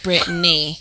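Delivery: "Brittany" in two syllables, brit-NEE; pronounced Brit-NEE. Shown as a demonstration. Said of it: "and then Brittany".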